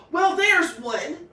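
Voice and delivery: slow, loud, high snap; snapped. A narrator's reading. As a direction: bite the words off, annoyed. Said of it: "snapped the girl".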